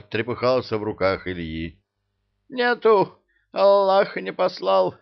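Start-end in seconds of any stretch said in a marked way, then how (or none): 2.5-4.9 high pleading eastern voice; whiny emir voice. Acted. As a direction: whine it high like a scared emir.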